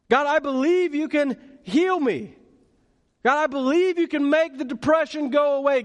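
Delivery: a mild, earnest plea to God; pleading prayer. Retold or imitated. A believer pleading with God in prayer, mild pleading. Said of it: "plead with God and ask him".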